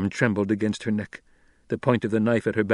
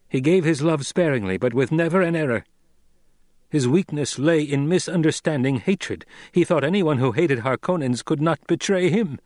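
high, loud, emphatic explanation; earnest young lord; 5 semitones higher, 5 dB louder than usual. Acted. Son explaining his father to the captor, earnest. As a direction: make him understand, firmly. Narrator voices Paul explaining.

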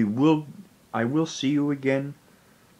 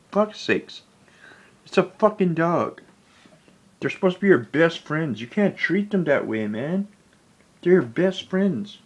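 exasperated outburst, a touch higher; disbelieving anger at whoever kills dogs; heated, wounded rant; indignant; 3 semitones higher than usual. Real, not acted. Outraged at the dog killer.

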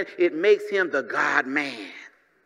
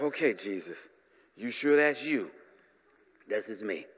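hushed disbelief; 9 semitones lower, 7 dB quieter than usual. Acted. Disciple and Jesus, hushed.

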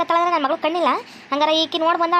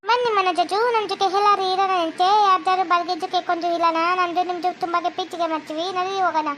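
put-on Chinese girl accent. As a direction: coax Manoj away, in a Chinese accent. Chinese girlfriend character.

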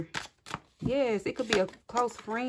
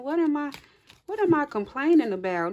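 higher and louder, acting out a sudden realization; imitated incredulous outburst; 5 semitones higher, 5 dB louder than usual. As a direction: voice someone shocked at their own complaining. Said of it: "Like, you like".

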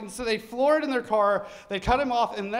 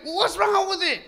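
high, loud irritated question; annoyed hick; 12 semitones higher, 5 dB louder than usual. Retold or imitated. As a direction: demand an answer. Leader asks.

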